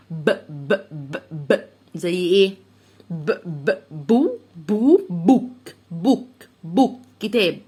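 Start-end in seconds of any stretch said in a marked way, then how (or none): 0.1-1.6 ب with closed lips and a puff of air, lower; b sound demo. Shown as a demonstration. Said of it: "ب، وهتخرج هوا". 3.1-7.0 بو بوك built up slowly with a puff on ب; sounding out. Shown as a demonstration. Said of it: "ب، وهتخرج هوا".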